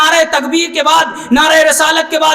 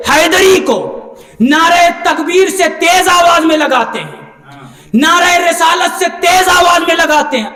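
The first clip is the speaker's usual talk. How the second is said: forceful, measured pulpit declamation; emphatic preaching; 2 semitones higher than usual. Acted. Preacher defends the congregation's slogans, emphatic preaching. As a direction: drive each phrase home to the crowd.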